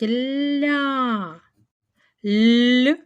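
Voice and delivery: "ля" high, drawn out, then a loud lone "Л"; teacher stretching "ля" and soft "Л". Shown as a demonstration. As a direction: isolate the softened л after "ля". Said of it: "м'яко лі і а".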